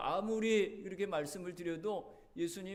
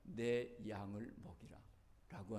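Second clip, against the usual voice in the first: solemn slow command; 6 semitones lower, 6 dB quieter, slower than usual. Retold or imitated. Jesus's command quoted solemnly.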